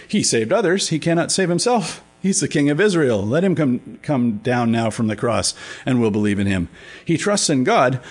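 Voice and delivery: a hint of scornful taunting; mocking priests. Pastor reading the priests' taunts at the cross, mildly mocking. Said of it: "were mocking him and saying".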